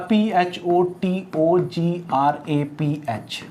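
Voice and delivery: slow, letter-by-letter spelling. Shown as a demonstration. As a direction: spell each letter out slowly. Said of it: "जैसे मैं आपसे कहूँ". (अक्षर-अक्षर धीरे-धीरे बोलना)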